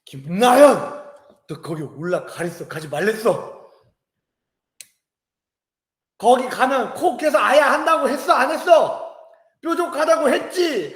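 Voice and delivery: mock scolding mom, loud at the start; angry mom scolding. Mother scolding her toddler for climbing, mock angry. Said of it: "애 엄마가 열받아가지고".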